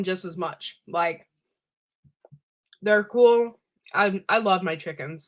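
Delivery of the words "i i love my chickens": talking while chewing; mouth full. Real, not acted. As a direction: say it round a mouthful of food. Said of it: "Sorry if I'm chewing too loud".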